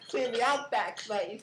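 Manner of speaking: Aussie outback line; playful Australian accent. Pretend. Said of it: "Aussie slang".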